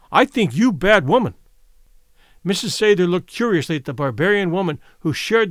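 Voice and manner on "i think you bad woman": louder, accusing broken English; angry accusation. A narrator's reading. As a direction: hurl it at the rival. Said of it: "Winnipie repeated".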